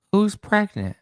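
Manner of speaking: high, shocked squeal of disbelief; mock shock. Host reacting to chat rumour with mock shock. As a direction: feign outrage at the news.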